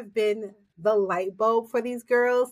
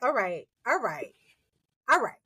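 all right, all right, let me recruit her; mock sly recruiter; 5 semitones higher than usual. Podcaster voicing a scheming source, hammed up.

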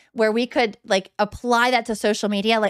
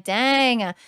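a lightly voiced admiring follower, pitched higher; mock awe at a fit friend's feed, a touch higher; gushing onlooker, only lightly put on; impressed follower; 4 semitones higher than usual. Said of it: "You could look at my Instagram and be like".

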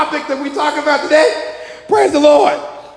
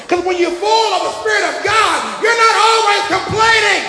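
high shouted proclamation; preaching shout; 6 semitones higher than usual. Real, not acted. Preacher proclaiming to the saints, high shout. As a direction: preach it at full force.

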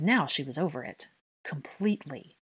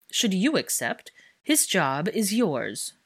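slow smug offer; 3 semitones higher, 4 dB louder, slower than usual. Acted. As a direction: dangle the job slowly and smugly. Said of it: "smiling slowly".

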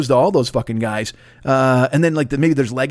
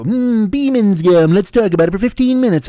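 dopey podcaster; 5 semitones higher, 4 dB louder than usual. Retold or imitated. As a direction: drag it out like a clueless host. Mocking amateur podcaster.

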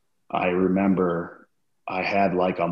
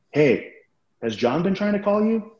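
imitating Ken; 12 semitones higher than usual. Ken calling him on the phone.

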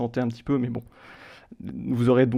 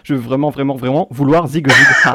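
deadpan recital getting louder at the end; monotone lyric reading; 8 dB louder than usual. Pretend. Quizmaster finishes translated song for laughing players, mock-monotone. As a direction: plod through nonsense lyrics, ending loud with a laugh. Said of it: "vous les lire de manière un peu monotone".

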